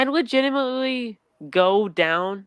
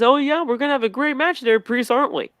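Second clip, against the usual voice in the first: mock smug Owens; 7 semitones higher, 5 dB louder than usual. Owens quoted, smug challenge.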